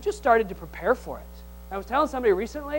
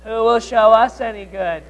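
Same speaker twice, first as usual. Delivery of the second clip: grumpy complaint; 5 dB louder than usual. Pretend. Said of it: "the way you talk to your spouse when you're in a grumpy mood".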